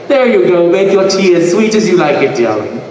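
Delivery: gracious British hostess; a hint of British mum, dropping on the last word; lightly voiced British mother. Comic imitates his mother serving tea to a guest, lightly British hostess. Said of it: "she's still very much British".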